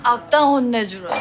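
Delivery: put-on drunk. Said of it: "많이 취한 것 같은데".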